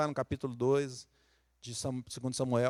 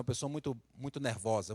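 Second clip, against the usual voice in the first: normal talking voice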